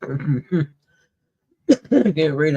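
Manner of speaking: talking through a mouthful of food; words round a bite of food; mouth full. Real, not acted. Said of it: "I got my mouth full".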